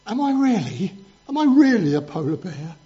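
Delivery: lightly voiced doubting bear cub, pitch lifting; a hint of an earnest little cub questioning; little polar bear. Little bear asking his mum, lightly voiced doubt. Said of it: "one day the little polar bear".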